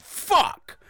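loud high yelp of fright; startled scream. Retold or imitated. Entity flies at him in the nightmare, loud frightened yelp. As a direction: cry out as something flies at you. Terrified cry as entity attacks.

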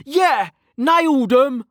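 high, loud, drawn-out cheer; triumphant crow. Acted. Mage whose firebolt struck the monster, triumphant cry. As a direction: crow over the hit in a high voice. Kettle crows after hit.

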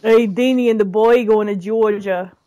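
put-on Georgia accent slipping toward Jersey; Georgia accent, slightly Jersey. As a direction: attempt a Southern accent, landing a little Jersey. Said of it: "There's a little Jersey in that accent".

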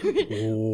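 low, half-hearted throat-singing growl breaking into a laugh; failed throat singing attempt. Shown as a demonstration. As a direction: try a deep throat-sing and give up laughing. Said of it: "I can't do it".

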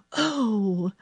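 mildly astonished storybook gasp; gasp of wonder. A narrator's reading. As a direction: breathe out the wonder. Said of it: "gasped Colin".

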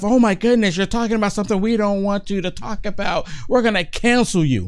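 a hint of a mocking lefty voice; mocking the left. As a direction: mimic a pearl-clutching critic. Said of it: "not have to worry about the left".

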